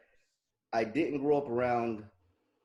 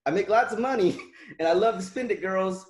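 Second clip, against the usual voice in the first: loud mocking boast; 5 semitones higher, 6 dB louder than usual. Mocking the neighbor's boast, louder.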